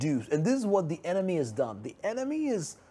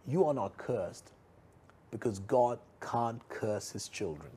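slow, quieter, pressing every word; soft, slow emphasis; 4 semitones lower, 5 dB quieter than usual. Real, not acted. Preacher stressing the key truth to viewers, slow and soft. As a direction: lean in softly, this is the key point. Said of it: "this is the most important part".

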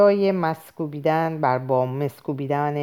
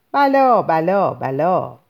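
wailing cry; 5 dB louder, much slower than usual. Acted.

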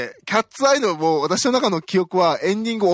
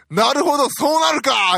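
high, louder cry of realization; excited realization; 9 semitones higher, 3 dB louder than usual. Retold or imitated. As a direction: act out the plot twist clicking. Acting out own reaction while watching. (高い声で興奮気味に納得する)

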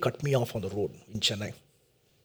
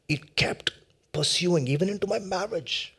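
whisper; 3 semitones higher, 5 dB quieter than usual. Acted. Sermon confession.

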